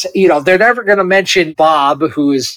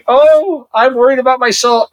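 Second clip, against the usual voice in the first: high-pitched mock fretting; Sherem; 7 semitones higher than usual. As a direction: wail it lightly in a high, worried voice. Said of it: "Sherem was just going".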